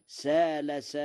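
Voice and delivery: "سال" with a long open a and no hamza; Warsh reading. Shown as a demonstration. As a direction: say "سال" like قال, a flowing long a. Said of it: "على وزن قال".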